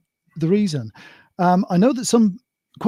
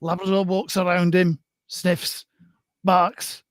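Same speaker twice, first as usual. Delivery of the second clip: Blackpool bingo caller. Pretend. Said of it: "go all Blackpool bingo caller for this".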